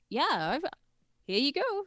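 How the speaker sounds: put-on high wired girl voice. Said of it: "'cause they're fucked".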